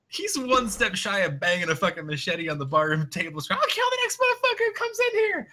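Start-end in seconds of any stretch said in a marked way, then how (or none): 3.5-5.5 high-pitched, hammed-up maniac yell; screamed threat. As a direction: shriek it as a crazed threat to the room. Acts out machete-wielding man's threat.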